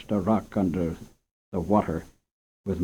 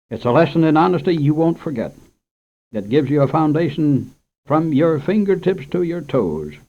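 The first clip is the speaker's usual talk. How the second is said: lightly voiced kindly old farmer, higher, louder; bearded farmer lecturing a boy, higher, louder; old man; 5 semitones higher, 4 dB louder than usual. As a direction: hand down a life lesson. Older man advises boy.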